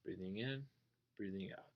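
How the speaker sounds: hushed, soft meditation count; soft breathing cue. Shown as a demonstration. Teacher returning to the breath after a wandering thought, hushed. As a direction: ease back into the breath quietly. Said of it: "Oh, yeah, I'm not thinking".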